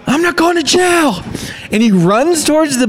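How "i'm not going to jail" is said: mock thief. Fleeing thief caught, retold quote.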